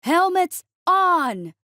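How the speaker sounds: high, loud, drawn-out order; long, loud sergeant's bellow; booming command. A narrator's reading. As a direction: boom it out over the noise. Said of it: "His voice boomed over the noise".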